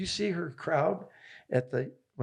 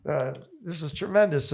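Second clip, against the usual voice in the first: a hint of an Australian accent, higher and louder; light Aussie accent; 4 semitones higher, 4 dB louder than usual. Coach imitating Aussie guys at a bar, light Australian accent. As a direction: toss off a playful Australian bloke voice. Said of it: "four Aussie guys".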